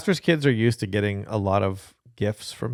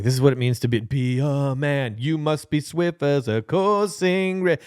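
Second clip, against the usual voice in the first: mock manly father speech; 2 semitones higher than usual.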